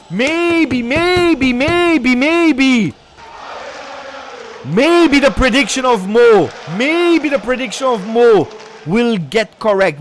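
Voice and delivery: high drawn-out hopeful maybes; tense excitement. Real, not acted. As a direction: build the suspense before the kick. Spannung vor dem Elfmeter.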